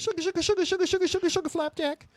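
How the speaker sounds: hammed-up Rogue catchphrase; Rogue impression. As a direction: chant it like a cartoon Southern belle. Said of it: "their freakish Southern accents".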